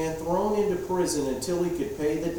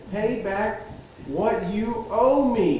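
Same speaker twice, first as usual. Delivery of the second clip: higher, louder, slow demand; 7 semitones higher, 4 dB louder, slower than usual. A narrator's reading. Servant yelling at his fellow servant, loud demand. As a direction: bark the debt back at him. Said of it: "he demanded".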